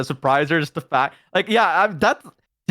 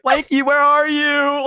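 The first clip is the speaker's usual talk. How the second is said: high, slow imitated child's wail; mock tearful calling; 12 semitones higher, 3 dB louder, slower than usual. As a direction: call out like a distressed little kid. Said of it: "I was in tears being like".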